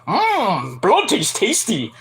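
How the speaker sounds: soft, slow savoring; creepy relish. Retold or imitated. Archer licking the bloody fork with slow creepy relish. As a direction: savor it like a ghoul. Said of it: "and starts".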